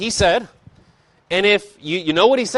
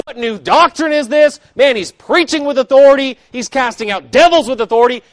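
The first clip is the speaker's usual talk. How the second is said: excited amazement; 8 semitones higher, 6 dB louder than usual. Retold or imitated. Crowd amazed, scared by preaching.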